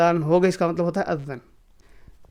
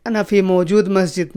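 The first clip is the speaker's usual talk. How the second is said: wrong version. Shown as a demonstration. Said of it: "موجود نہیں لگانا ہے".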